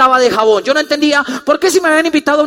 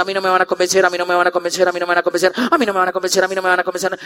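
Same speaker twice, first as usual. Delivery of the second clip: low monotone loop, run together; muttered refrain, lower and level; stubborn self-repetition; 6 semitones lower, 4 dB quieter, faster than usual. Retold or imitated. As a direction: repeat it like a closed-minded mantra. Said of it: "yo lo de repetí tanto".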